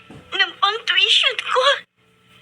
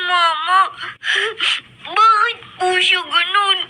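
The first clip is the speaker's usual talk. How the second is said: put-on tearful child. Child upset about distant father.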